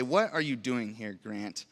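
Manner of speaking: quietly disappointed, almost ashamed, dropping off on the name; a hint of a let-down father; disappointed God. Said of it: "But in a very disappointed way".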